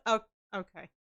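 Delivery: resigned, hushed oh okay; meek acceptance. Retold or imitated. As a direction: quietly swallow the annoyance. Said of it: "I was just like".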